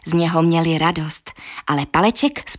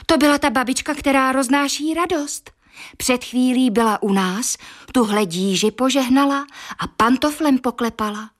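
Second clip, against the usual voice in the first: mother, higher and eager; a hint of an excited mother; excited wife answering husband; lightly voiced mother; 5 semitones higher than usual. Mother explains the grandmother.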